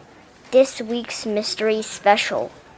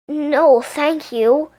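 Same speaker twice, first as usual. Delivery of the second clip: stammering; 5 semitones higher, 4 dB louder, much slower than usual. Acted. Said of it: "Helen stammered".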